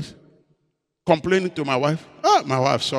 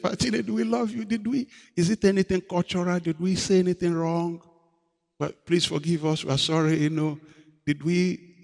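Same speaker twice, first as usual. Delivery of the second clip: pleading colleagues; 5 dB quieter than usual. Retold or imitated. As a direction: gently plead forgiveness as the pastors. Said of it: "colleagues' pleading apology voiced".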